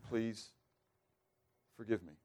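a humbled sinner asking forgiveness, very softly; quiet plea. Acted. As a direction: let the plea sink to almost nothing. Quiet plea at prayer's end.

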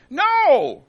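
loud high cry; loud anguished no. Acted. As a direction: shout it in anguish. Parent crying out.

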